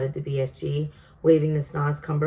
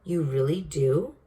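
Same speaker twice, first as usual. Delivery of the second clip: hopeful disbelief. Acted. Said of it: "suddenly brightening".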